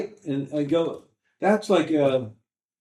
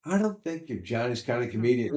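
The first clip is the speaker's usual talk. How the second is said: Macaulay; 5 dB quieter than usual. Retold or imitated. Booker rejecting comic at an audition, dismissive. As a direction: imitate a booker gently turning you down. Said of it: "Macaulay would be going".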